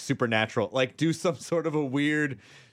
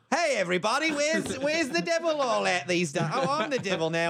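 Pacino devil voice; 7 semitones higher than usual. Pretend. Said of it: "cut to Pacino".

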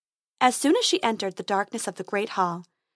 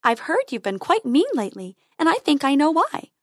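fairy voice; 5 semitones higher, 4 dB louder than usual. Acted.

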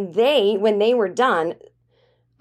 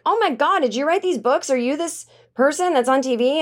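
higher-pitched amazed questions; mock awe, pitched up; starstruck quote; 6 semitones higher than usual. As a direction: imitate someone suddenly starstruck. Quoting cleaner discovering she's famous.

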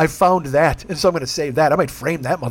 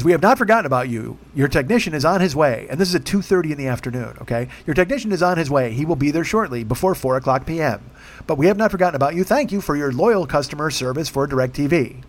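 a hint of a recorded robocall, lightly voiced; mock robocall drone; 2 semitones lower than usual. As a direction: read it like a canned automated message. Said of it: "it's a robocall from DirecTV".

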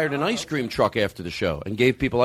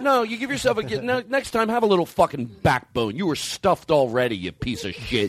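mock self-scolding; 3 semitones higher than usual. Host berating himself for overeating, mock scolding. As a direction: scold yourself, exasperated.

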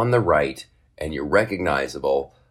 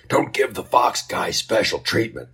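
grumbling passenger; 4 semitones higher than usual. Retold or imitated. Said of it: "angry mob of disgruntled passengers".

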